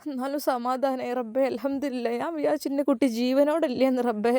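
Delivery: soft, hushed mother thanking God; relieved tearful mother. Acted.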